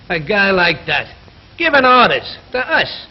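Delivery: a worker's rising resentment; indignant. Acted. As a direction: spit out the grievance. Griping about the foreman.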